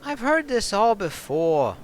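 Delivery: put-on tough bartender snapping back in a New York accent; defiant New York accent. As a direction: put him in his place, New York style. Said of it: "a bit of a New York-ish kind of accent".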